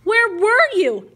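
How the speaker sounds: slow, insistent questioning, rising in pitch; upset challenge. Acted. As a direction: press him, drawing out the question. Upset patient challenges her rescuer.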